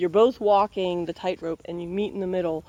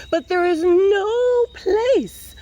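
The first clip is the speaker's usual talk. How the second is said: higher, slow and drawn out; dramatic slow reading; 11 semitones higher, 6 dB louder, much slower than usual. A narrator's reading. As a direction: stretch each word for suspense.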